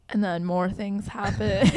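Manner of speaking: slow, laughing repeat. Shown as a demonstration.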